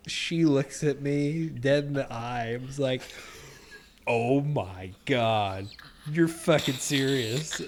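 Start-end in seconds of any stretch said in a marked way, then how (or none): 4.1-7.6 slow, drawn-out exasperation; pissed-off disbelief. Retold or imitated. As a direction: imitate an appalled, fed-up wife. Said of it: "almost pissed off reaction from her".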